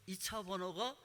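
slow taunt, stretching the numbers; unhurried mock jeer, syllable by syllable; mock teasing. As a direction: imitate kids needling, very drawn out. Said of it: "그러면서 저를 놀리는 거예요".

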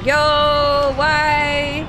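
exasperated protest. Real, not acted. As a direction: wail it at the game. Protesting game mishap.

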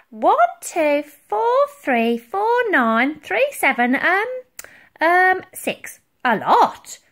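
high, loud, halting count; muddled counter. A narrator's reading. Dotty counts gunpowder barrels badly, muddled. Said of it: "Counting was not her strong suit".

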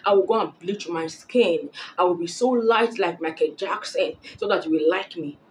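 breezy pretend compliance, lightly acted; joking. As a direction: play along as a joke. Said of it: "Through a joke".

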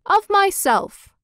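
each one grabs the honour; hammed-up squabbling councilors; councilors' claim. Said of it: "said each of the town councilors".

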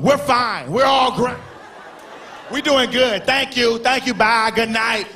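mock girl voice shooing a guy off; airy dismissive girl; sassy brushoff. Women shooing a guy at the club, mock girly voice.

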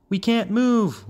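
high, drawn-up little frog cry; young frog calling out. A narrator's reading. One crowded young frog to the others, high complaining call. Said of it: "one called".

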